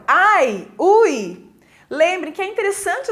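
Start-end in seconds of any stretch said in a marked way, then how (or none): 0.1-1.5 demonstrated pain. Shown as a demonstration. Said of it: "De dor".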